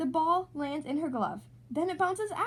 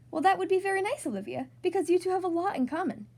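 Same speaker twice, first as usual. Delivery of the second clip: teacher voice; 5 semitones higher, 3 dB louder than usual. A narrator's reading. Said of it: "Missus Hagenmuller said".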